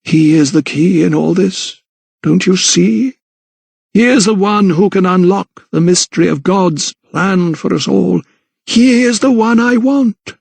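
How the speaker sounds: high, intense insistence; fixated vicar. A narrator's reading. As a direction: zealot explaining God's plan. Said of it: "his voice was softer".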